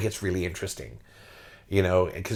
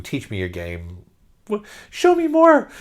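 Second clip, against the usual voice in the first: eager fan; 5 semitones higher than usual. Retold or imitated.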